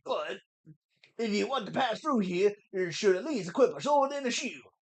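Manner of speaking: hammed-up stereotypical Southern voice; Mido, bad Southern accent. Gatekeeper scolding an unequipped boy, bad Southern accent. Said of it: "Really bad, stereotypical Southern accent".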